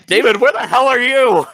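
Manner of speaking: calling out. Acted. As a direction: shout across the room for a missing friend.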